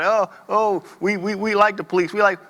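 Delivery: a hint of a phony eager politician; mocking Republicans. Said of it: "I hear these Republicans talking about".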